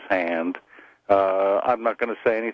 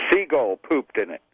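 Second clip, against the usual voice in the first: put-on matter-of-fact pirate accent. Pirate explaining his eye patch, pirate accent. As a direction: give the punch line's setup as a pirate. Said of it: "slid back and forth into that pirate accent".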